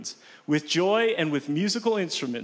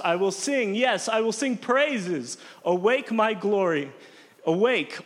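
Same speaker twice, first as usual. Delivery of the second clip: joyful praise reading. Acted. Reading the praise part of the psalm, lifted joyful voice. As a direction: let the praise burst out.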